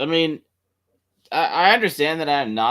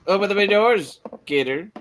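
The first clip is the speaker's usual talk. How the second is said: HAL quote; 9 semitones higher, 4 dB louder than usual. Pretend.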